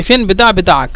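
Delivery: ফেন বিতা বিতাক said in Egyptian Arabic, rising on বিতা; spoken Arabic phrase. Shown as a demonstration. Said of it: "যদি এভাবে বলে যে".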